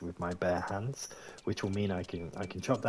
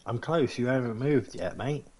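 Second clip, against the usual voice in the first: impatient call; 5 semitones higher, 6 dB louder than usual. Real, not acted. Calling to the forester in game.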